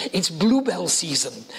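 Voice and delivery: lightly imitated posh English accent; a touch of posh old lady's English. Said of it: "posh voice".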